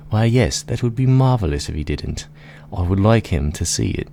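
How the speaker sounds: high, lilting spider voice; theatrical, swooping storybook spider; delighted spider. Acted. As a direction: agree with relish as a scheming giant spider. Plays the gigantic spider.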